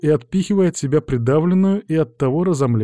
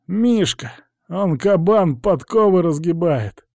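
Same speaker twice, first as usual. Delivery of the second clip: put-on high-pitched young informer; higher boyish character voice; answering lad; 6 semitones higher, slower than usual. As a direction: answer in a lad's raised pitch. Lad describes the policeman.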